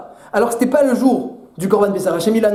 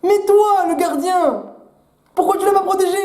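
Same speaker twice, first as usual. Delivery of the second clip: rising into a higher accusing pitch; Cain blaming God; 4 semitones higher than usual. Acted. Cain accuses God of not protecting Abel, rising higher. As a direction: shift the blame, building up. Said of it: "Caïn, il a dit".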